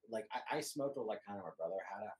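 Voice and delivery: distant from the microphone; talking off mic; far from mic. Real, not acted. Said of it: "Talk to the mic closer".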